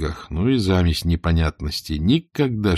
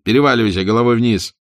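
raised, louder command; shouted order; 5 semitones higher, 6 dB louder than usual. A narrator's reading. Spark orders Langer over head down, shouting.

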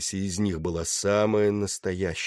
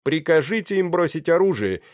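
higher, louder, declaimed demand; theatrical voice; 10 semitones higher, 6 dB louder than usual. A narrator's reading. Pirate commander pressing the captain to yield, theatrical. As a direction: proclaim the terms with stagey force. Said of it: "театральным голосом произнёс он".

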